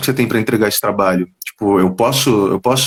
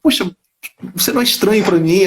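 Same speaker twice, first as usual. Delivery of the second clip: a slightly higher, lightly voiced curious saleswoman; puzzled saleswoman; 7 semitones higher than usual. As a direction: ask it like a clerk half sure she knows him. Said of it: "Aí ela perguntou".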